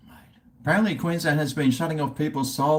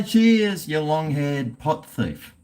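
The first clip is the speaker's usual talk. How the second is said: imitating Scotty; 4 semitones higher, slower than usual. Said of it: "what's Scotty say?".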